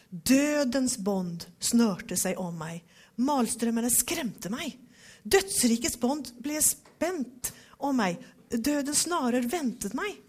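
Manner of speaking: solemn, weighty reading of the psalm; dramatic scripture reading. Shown as a demonstration. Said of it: "Nå har vi det lite mer dramatiskt". (dramatisk bibelläsning)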